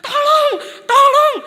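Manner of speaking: high, acted cry for help; desperate full-voiced call; shouting for help. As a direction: yell out to the neighbours. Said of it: "Lalu mereka teriak kepada tetangga".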